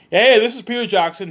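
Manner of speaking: loosely imitating Peter Jackson's New Zealand accent. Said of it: "He has his accent".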